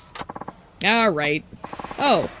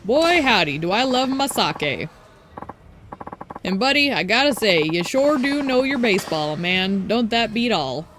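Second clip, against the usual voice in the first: lightly voiced old-timer, jolly and pushy; a hint of a tipsy old-timer; folksy old drunk. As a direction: play the tipsy old man inviting a stranger.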